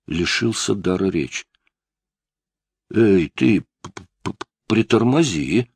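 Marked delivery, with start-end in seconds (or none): 2.9-5.7 a stammering mumble, caught off guard. A narrator's reading. Suspect stunned by a murder accusation, stammering. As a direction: trip over the first sounds of притормози. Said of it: "пробормотал он наконец".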